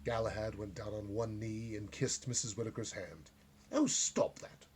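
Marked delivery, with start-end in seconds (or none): 3.7-4.7 put-on flustered old lady. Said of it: "she said".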